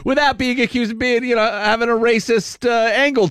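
amused, hurried, laughing delivery. Real, not acted. Host making his point about criticizing the coach, laughing. Laughs while giving opinion.

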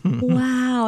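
lightly imitated baby wow; a hint of an awed little one; cute baby voice. Baby niece watching Christmas candles, cute voice. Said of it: "in the cutest voice you've ever heard".

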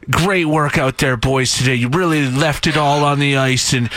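mildly mocked upbeat fan tweet; lightly put-on supportive cheer; fake positivity. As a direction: imitate relentless encouragement of a losing team. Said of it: "Why are you always positive".

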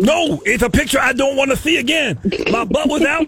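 agitated, complaining Cupid caller; upset caller. Acted. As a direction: play a flustered man telling his woes. Prank caller plays upset Cupid.

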